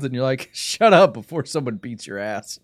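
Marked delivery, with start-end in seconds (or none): 0.5-1.1 mock shout. Snapping at an annoying fan.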